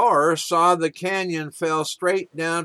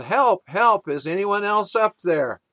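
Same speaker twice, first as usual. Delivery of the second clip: mock yell for help; 3 semitones higher than usual. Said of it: "Jack yelled".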